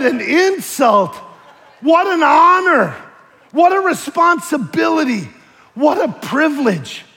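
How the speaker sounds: loud, high, slow exclamations; indignant rebuttal. Retold or imitated. Preacher retells answering an offended musician, indignant and emphatic. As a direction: hammer each phrase out slowly and loudly.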